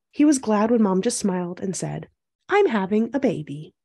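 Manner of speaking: measured storybook read-aloud; picture-book narration. A narrator's reading. Host reading a picture book to young viewers, storytelling. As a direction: read it clearly to young children.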